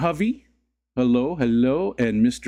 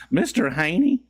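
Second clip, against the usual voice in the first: raised, questioning sitcom voice; Green Acres impression; 7 semitones higher than usual. Streamer imitating a Green Acres line, raised character voice. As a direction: call the name high, rising at the end. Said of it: "Green Acres, Mister Haney".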